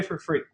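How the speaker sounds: free leaned on at the end of the line; emphasize free, it costs nothing; stress on free. Shown as a demonstration. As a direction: give a little weight to the word free. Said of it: "I emphasize the word free".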